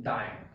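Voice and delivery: डाइन said to rhyme with lion, like dine. Shown as a demonstration. Teacher shows the rhyme for students, said carefully. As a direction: stretch डाइन so it matches lion. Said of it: "we need to pronounce it as".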